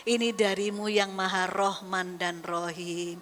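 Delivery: low, slow, hushed plea to God; humble prayer. Retold or imitated. A troubled parent praying low and slowly to God. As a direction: pray it low and slowly, surrendering.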